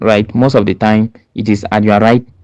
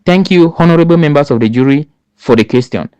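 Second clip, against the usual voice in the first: polite thanks; 3 semitones higher than usual. Shown as a demonstration. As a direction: open by politely thanking the jury. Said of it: "you can say".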